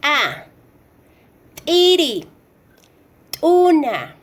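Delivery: "a" as t'a, "Tiri" and "Tuna" with a popped glottal T; "Tiri", "Tuna" and t'a with a sharp ejective click of T. Shown as a demonstration. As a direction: pop the T of "Tiri", "Tuna" and t'a, then the vowel. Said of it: "Y como siguiente tenemos".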